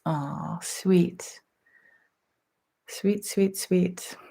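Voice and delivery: breathy whisper of tender thanks; whispered sweet. Real, not acted. To viewers who shared kindness, softly whispering. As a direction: whisper it as if deeply touched.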